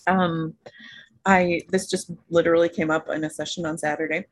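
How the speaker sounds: talking while still chewing; mouth full. Real, not acted. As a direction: speak through a mouthful of food. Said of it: "I'm still chewing something".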